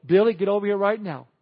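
put-on loud, insistent hollering at a child; yelling parent. Parent yelling across the room at Billy. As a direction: nag him loudly to come over now. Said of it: "we say, you know".

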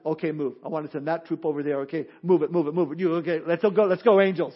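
brisk commander dispatching troops; rally the angels like a general; quick low military orders; God giving orders. Retold or imitated. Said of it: "God says".

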